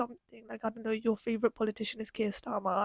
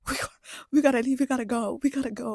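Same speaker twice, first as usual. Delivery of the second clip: hurried, louder urging to leave; urgent mock panic; 6 dB louder, faster than usual. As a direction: blurt it out in a hurry. Reenacts urging friend to leave.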